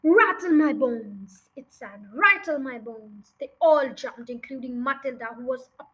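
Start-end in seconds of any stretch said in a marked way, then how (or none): 0.0-1.5 very slow, drawn-out ghostly voice; spooky parrot. Acted. Hidden parrot haunting the family, slow and spooky. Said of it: "soft and spooky this time". 2.2-3.3 drawn-out ghostly voice; spooky parrot. Acted. Hidden parrot repeating its haunting line, spooky drone. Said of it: "soft and spooky this time".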